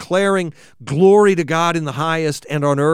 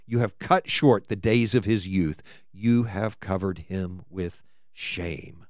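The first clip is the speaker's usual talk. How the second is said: scripture reading; 3 semitones higher than usual. Acted. Preacher reading the psalm's losses, slow and grave. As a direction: let each loss land, fading toward shame.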